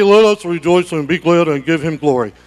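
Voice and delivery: mock the reluctant worshipper; sarcastic limp rejoicing; mock dull praise. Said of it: "some of you are gonna be".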